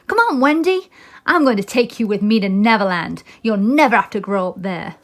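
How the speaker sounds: lightly voiced eager boy; Peter Pan.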